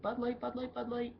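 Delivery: mock yelling. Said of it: "started yelling out stuff".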